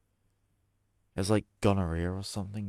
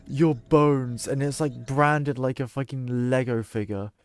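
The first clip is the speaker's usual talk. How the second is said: laughing; 6 semitones higher, 8 dB louder than usual. Real, not acted. Cracks up imagining branded bones.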